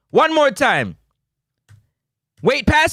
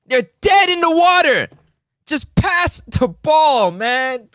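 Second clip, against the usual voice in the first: frustrated shout; 3 semitones higher than usual. Real, not acted. Yelling at player on replay.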